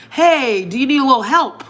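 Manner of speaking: imagine a polite passerby offering help. Pretend. A passerby to someone in distress, polite offer. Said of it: "just being polite would have worked".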